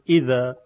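اذا begun with a full glottal stop on "i"; a distinct hamza "i" opening اذا; hamza with kasra. Shown as a demonstration. Teacher showing the second hamza, a clear "i" with full stop. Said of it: "همزهٔ دوم مکسور".

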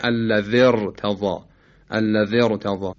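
الذی ارتضی linked, short i into heavy r; joined heavy ra. Shown as a demonstration. Teacher showing the joining, الذی ارتضی with heavy r. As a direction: run الذی straight into a thick r of ارتضی.

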